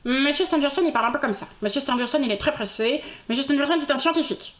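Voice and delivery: lightly voiced hurried scientist; a hint of a man in a rush; Monsieur Stangerson. Demonstrating the busy scientist, lightly put-on voice.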